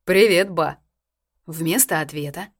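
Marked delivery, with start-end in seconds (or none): 0.0-0.8 cheerful. A narrator's reading. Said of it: "весело произнёс".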